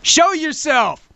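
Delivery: high, slow gurgling underwater voice; gurgling fish man croak. Pretend. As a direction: call out like a drowned ghost hunter. Voicing underwater ghost-hunter call.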